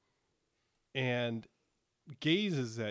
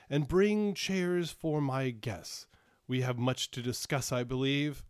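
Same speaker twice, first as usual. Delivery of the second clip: royal order; 4 dB louder than usual. Acted. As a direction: order the chairs with weight. King orders seneschal.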